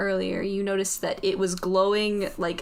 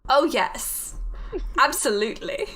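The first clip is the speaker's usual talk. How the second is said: put-on British assurance; bad British accent. Voice in the head answers the wary player, put-on British accent. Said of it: "My horrible British accent".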